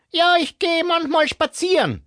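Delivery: high, scratchy smoker's voice. Acted. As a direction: croak it like a heavy smoker. Barbara answers, then coughs.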